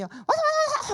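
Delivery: high loud repeated shout. Retold or imitated. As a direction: bark the order like a furious driver. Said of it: "막 소리를 지르는 거예요". (높고 크게 외치는 고함)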